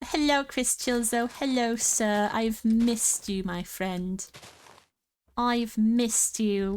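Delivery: a light put-on British accent, slow and drawn out; weird British accent. Streamer greets a song like an old friend, British accent. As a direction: greet him in a vaguely posh British accent. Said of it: "I don't know what accent I'm doing".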